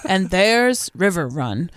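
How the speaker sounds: slow, grandly drawn-out presenter; husky announcer. Retold or imitated. Boat owner shows newcomers River Run, imitated husky voice. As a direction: imitate a husky host unveiling a place. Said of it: "had this low, husky voice".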